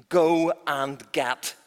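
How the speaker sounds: drawn-out slow command; queen giving a slow order. Acted. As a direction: stretch the order out slowly. First full order.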